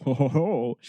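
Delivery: ordinary delivery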